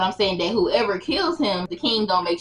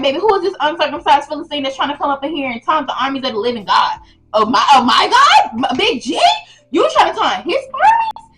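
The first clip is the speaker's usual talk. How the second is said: high David voice; 4 semitones higher, 3 dB louder than usual. Retold or imitated.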